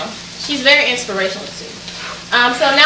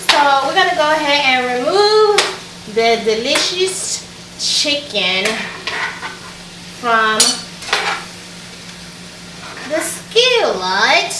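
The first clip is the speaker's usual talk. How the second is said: mock British accent; slower than usual. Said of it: "Why am I talking in a strange accent?".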